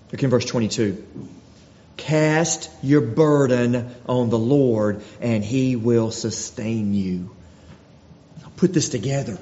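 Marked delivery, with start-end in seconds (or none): 2.0-7.3 slow scripture reading. Acted. Pastor reads verse aloud.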